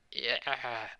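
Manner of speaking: half-hearted imitation of a victory cry; mock victory scream. Deku finished sorting everything, mock victory scream. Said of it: "like a victory scream".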